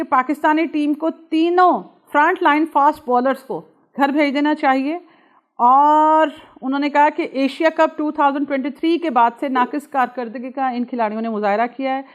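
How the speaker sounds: a touch of imitated outrage, firmly projected; forceful, mildly heated quote-reading; angry Mohammad Hafeez quote. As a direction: read out an irate critic's demand, punching key words. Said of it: "لیکن آپ کی tone دیکھیے".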